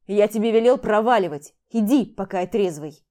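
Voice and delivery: loud furious order; shouting. Acted. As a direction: yell at her to get out. Max orders her out, drunk. (громкий злой крик)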